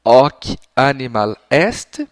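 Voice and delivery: slow, drawn-out answer pattern; slow prompt. Shown as a demonstration. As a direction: trail off so the child can complete it. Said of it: "vai falar essa parte toda".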